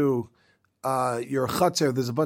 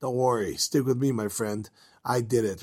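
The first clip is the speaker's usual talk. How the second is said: lower, softer comfort to a friend; reassuring; 5 semitones lower, 3 dB quieter than usual. Retold or imitated. Shmuel comforting the worried blind man, lower and softer reassurance. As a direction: settle him down gently.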